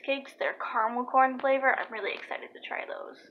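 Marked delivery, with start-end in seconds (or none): 1.8-3.2 whisper. Real, not acted. Whispering about snacks.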